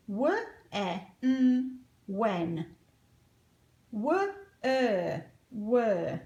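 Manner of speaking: each word split, "Were" on a rising start, then the word; sounding out. Shown as a demonstration. Teacher leading the duck-hands sounding drill. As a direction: sound out "Were" then blend, with hand signs. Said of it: "Follow the sounds with your duck hands".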